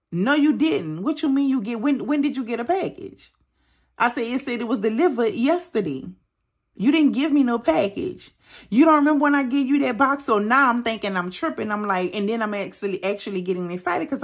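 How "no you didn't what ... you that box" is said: incredulous retort. Retold or imitated. Arguing with husband on phone.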